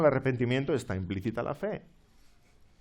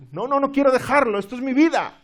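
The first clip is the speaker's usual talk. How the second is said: high, loud pleading refusal; cling on and beg not to let go; desperate passenger; 11 semitones higher, 8 dB louder than usual. Pretend. Drowning passenger clings to luggage. (pasajero desesperado que se niega, agudo y fuerte)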